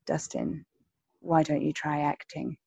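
softly delivered retort, imitating an actor; quiet punchline quote. Acted punchline quote of Olivier to Dustin.

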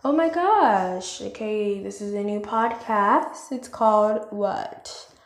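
mock gushing listener voice; imitated excited listener. Someone discovering the podcast, gushing excitedly. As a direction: gasp at first, then curious chatter. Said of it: "take the time out... to even just".

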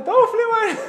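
high, loud imitation of a yelling officer; mock scream, pitch shooting way up; retold yelling. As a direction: yell it like a commander throwing someone out. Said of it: "הוא התחיל לצרוח עליי".

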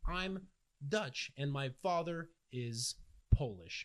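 slow, smug mock answer; mocking Sicilian pride. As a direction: drag it out like a proud show-off. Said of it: "you ask them, like".

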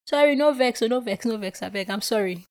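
acted apologetic patter; hasty placating apology. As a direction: back down hurriedly, pleading no offence. Acted hasty apology to ranting fan.

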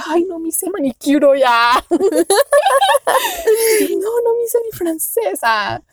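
mock panic dissolving into high laughter; imitating her flustered self, cracking up; laughing. Telling friends about her unpainted nails, laughing. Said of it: "yo ya de".

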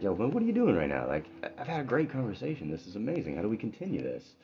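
bubbling over after a great chat; excited rich man. Acted. Rich man to his new friend, eager and excited. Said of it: "the rich man's like".

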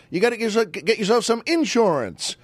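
high, bouncy Southern delivery; Southern talk, "insurance" stressed on IN. Retold or imitated. Imitating folks from the South selling the word, bouncy Southern. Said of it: "a lot of people from the South say".

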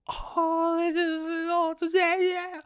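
high mocking gushing voice; mocking coverage of a pop singer. Fed-up fan mimicking the breathless coverage of a pop singer, mocking gush. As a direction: parody the gushy fawning over a pop singer. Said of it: "I cannot do the pop singer, the whole".

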